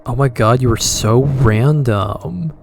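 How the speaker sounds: mock gushing. Teasing friend for random humor.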